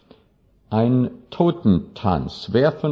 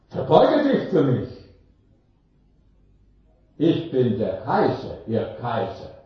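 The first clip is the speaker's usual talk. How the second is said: emperor commanding. Acted. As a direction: demand a bow as emperor. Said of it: "Er sagt". (hochmütiger Kaiser, der vom Tod eine Verbeugung verlangt)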